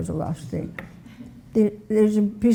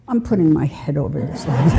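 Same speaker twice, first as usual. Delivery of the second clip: put-on lower, laughing through a cheeky kid's line; cheeky boy, laughing; 5 semitones lower than usual.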